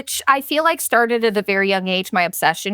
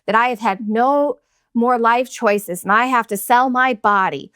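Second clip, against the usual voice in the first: mock dreamy kid. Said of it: "little kids ... being like".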